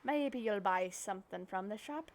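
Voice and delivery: lightly voiced old fisherman handing over his rod; a touch of a kindly pirate, gently sincere; Willy pirate voice. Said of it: "I'm gonna give him a pirate voice".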